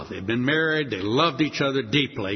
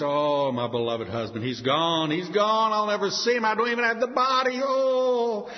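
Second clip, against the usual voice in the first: wailing in grief, voice climbing higher; weeping widow; 5 semitones higher than usual. Acted. Grieving wife told her husband is dead, wailing. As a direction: cry out for the husband you lost. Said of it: "just weeps".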